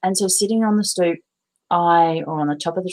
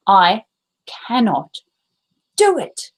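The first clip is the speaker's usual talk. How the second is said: the inner critic voice; 3 semitones higher than usual. Retold or imitated. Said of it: "and I heard".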